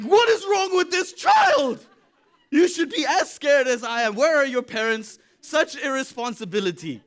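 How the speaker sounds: high, loud, laughing outrage; mock outrage. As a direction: throw up your hands at the fearless kid, laughing. Outraged at a fearless child.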